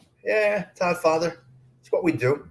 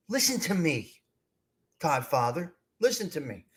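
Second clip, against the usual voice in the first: earnest hush; 6 dB quieter than usual. Real, not acted. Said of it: "I'm dead serious when I say this".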